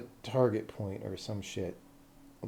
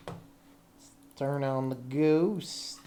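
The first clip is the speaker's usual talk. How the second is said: slow drawn-out announcement; much slower than usual. Pretend. Repeats the line slowly.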